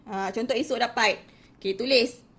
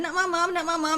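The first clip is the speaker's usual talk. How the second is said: put-on higher, cutesy toddler talk saying "mamam"; baby talk; 5 semitones higher than usual. Shown as a demonstration. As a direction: coo "mamam" like a parent to a baby. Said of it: "jangan ajar bahasa baby".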